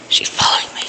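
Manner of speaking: panicked whisper. Real, not acted. Chased in game.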